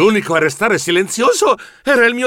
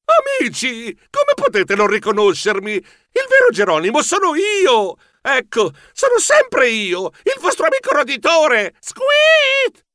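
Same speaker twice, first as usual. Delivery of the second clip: high-pitched desperate insistence; desperate pleading; 9 semitones higher than usual. A narrator's reading. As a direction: plead to be recognised, voice climbing to a squeak. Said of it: "continuavo a ripetere disperato".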